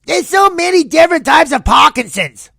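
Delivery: put-on high, loud old Jewish woman voice; old Jewish lady. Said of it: "made her sound like an old Jew".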